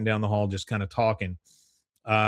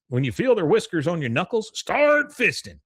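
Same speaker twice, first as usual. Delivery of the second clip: redneck fishing buddy; 7 semitones higher, 3 dB louder than usual. Retold or imitated. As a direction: stretch out start fisting like a hick coach. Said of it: "he goes".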